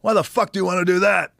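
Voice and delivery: loud, high scoffing disbelief; incredulous shout. Retold or imitated. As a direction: yell it like it's the dumbest idea ever. Pat mocking wrestling ambitions.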